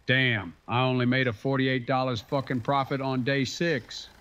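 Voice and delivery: put-on slipping into a Southern accent; a lightly Southern twang on the complaint. Grumbling to his partner about the profit in a light Southern accent. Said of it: "randomly have a southern accent there".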